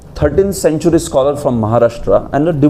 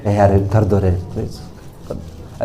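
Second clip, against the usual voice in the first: begging, weak king; 4 semitones lower, 4 dB quieter, much faster than usual. Retold or imitated. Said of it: "ऐसा बोलता है राजा".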